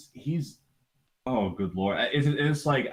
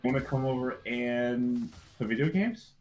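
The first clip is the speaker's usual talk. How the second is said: put-on kid pleading voice; 4 semitones higher, slower than usual. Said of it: "he's like".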